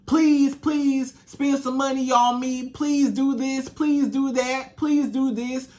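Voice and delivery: mock pleading, slow drawn-out pleases; begging woman. Imitating a woman begging a man for money, mock pleading. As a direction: plead like a needy woman with her hand out. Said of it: "that begging woman with her hand out".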